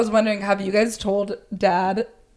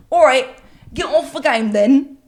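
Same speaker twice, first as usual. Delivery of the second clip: louder, higher mock British bloke; British accent; 4 semitones higher, 6 dB louder than usual. Drunk friend copying a confused British man, mock British accent. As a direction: loudly mimic a British accent. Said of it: "imitating some, like, their accent".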